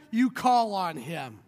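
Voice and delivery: preacher slowing down the repeated line. Acted. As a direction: lean back and let it sink in. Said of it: "and you call on him".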